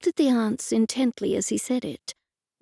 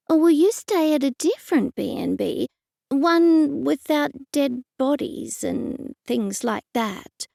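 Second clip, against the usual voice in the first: trailing off uncertainly; 4 semitones higher than usual. Acted. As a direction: let it trail off unsure. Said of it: "Her voice trailed away uncertainly".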